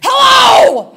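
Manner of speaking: furious mom shrieking a greeting; screamed hello. Retold or imitated. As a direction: scream it into the phone. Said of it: "my mother screamed".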